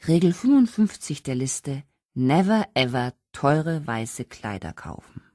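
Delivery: slow, mock-solemn tipsy proclamation; tearful solemn decree. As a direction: announce a rule through tears. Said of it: "verkündete sie unter Tränen, aber sehr ernsthaft".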